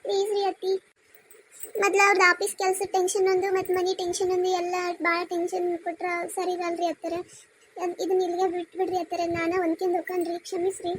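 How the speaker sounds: daughter-in-law pleading meekly; meek apology. Acted.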